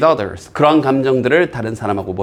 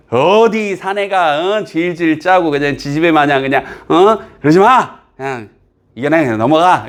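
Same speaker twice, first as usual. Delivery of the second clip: mock scolding. Teacher mimics the old notion that men mustn't cry, mock scolding. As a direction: act out a disapproving elder's telling-off. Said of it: "일 번에서 나왔던 통념".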